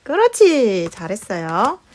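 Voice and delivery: 아이에게 말하듯. Acted. Sing-song praise to small child.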